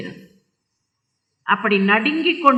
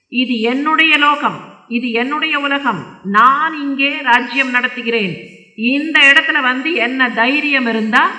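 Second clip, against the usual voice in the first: acted indignation, somewhat raised voice; angry king; 2 semitones higher than usual. King rebukes the man beating animals in his realm, angry. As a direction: assert your rule over the intruder. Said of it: "கோபத்தோட கேட்கறான்".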